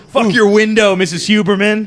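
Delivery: shouting. Real, not acted. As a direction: yell it over the fence. Yelling at neighbor over fence.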